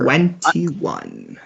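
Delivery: "Twenty-one" split carefully as twen-tee-one; "Twenty-one" with a fully sounded middle T; over-enunciated syllables. Retold or imitated. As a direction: mimic a careful British "Twenty-one", each syllable separate. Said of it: "You pronounce a lot more syllables in it".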